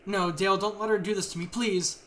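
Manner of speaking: desperate plea. Acted. Captive begs husband for help.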